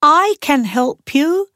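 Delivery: high, loud call down from the tree. A narrator's reading. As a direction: call out to your sisters. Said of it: "called the youngest princess".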